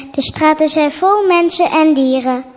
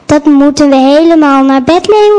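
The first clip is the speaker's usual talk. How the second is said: louder dismayed call; 7 dB louder than usual. Acted. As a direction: cry out in dismay. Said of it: "roept Jozef".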